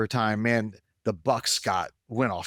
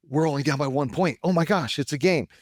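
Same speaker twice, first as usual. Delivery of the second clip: higher and louder, suddenly hopeful; excited fan; 6 semitones higher, 3 dB louder than usual. Retold or imitated. Husband reliving the comeback to his wife, excited. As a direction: get pulled back into the game.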